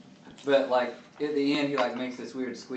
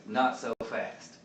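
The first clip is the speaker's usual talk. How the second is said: 1 Finn's voice; 3 semitones lower, slower than usual. Pretend. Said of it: "Burb says in Finn's voice".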